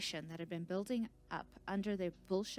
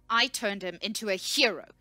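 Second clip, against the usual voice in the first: loud, angry shout leaning on "I"; shouted, stress on I; 3 semitones higher, 12 dB louder than usual. A narrator's reading. Researcher squares up to the scout, shouting with "I" stressed. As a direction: shout it, claiming credit with "I". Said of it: "she shouted".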